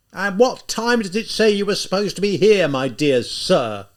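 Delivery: loud high bellow, dragging out my dear sir; bawling. Acted. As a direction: bawl it, slowing on the insult. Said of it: "the lieutenant bawled".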